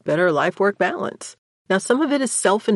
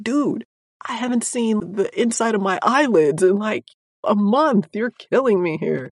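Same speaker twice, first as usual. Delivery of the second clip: higher, pleading, worn-out complaint; exasperated plea; 4 semitones higher than usual. Retold or imitated. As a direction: beg for mercy like a teammate at the end of their rope. Exhausted colleague complaining.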